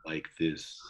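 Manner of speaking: imitating Knuckles. Shown as a demonstration. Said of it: "make Knuckles' voice sound, like, sexy".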